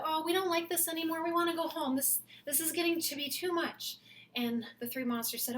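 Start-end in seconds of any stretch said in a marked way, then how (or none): 0.0-4.0 put-on kid voice. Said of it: "And the kid said".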